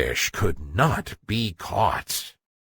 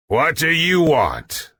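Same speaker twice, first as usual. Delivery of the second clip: menacing; 5 semitones higher than usual. Acted. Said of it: "in a menacing".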